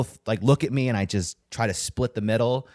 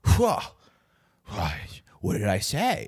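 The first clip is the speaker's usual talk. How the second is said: mock offended; 2 semitones lower than usual. Canvasser jumping back from him, mock offended. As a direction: act taken aback, starting pitched way up. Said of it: "acts all, like, offended".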